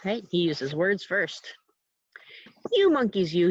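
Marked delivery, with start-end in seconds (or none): 2.7-3.5 a mild scolding peddler. Acted. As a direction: scold the monkeys. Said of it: "he said, shaking a finger".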